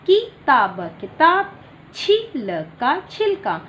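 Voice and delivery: put-on teacher leads children in slow spelling drill; slow sounding out. Shown as a demonstration. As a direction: spell each syllable slowly, then say the word. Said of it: "आप सभी बच्चे मेरे साथ उच्चारण करेंगे".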